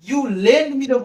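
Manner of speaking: very slow, each word spaced out; slow dictation. Shown as a demonstration. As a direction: read it off the board slowly for students. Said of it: "সেন্টেন্সটা লিখেছি দেখো". (ধীরে ধীরে ডিক্টেশনের মতো পড়া)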